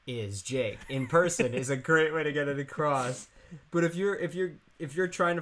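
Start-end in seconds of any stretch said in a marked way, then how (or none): 0.1-0.8 grand presentation. Shown as a demonstration. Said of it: "we've covered".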